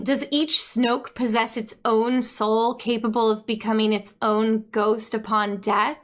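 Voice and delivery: usual speaking voice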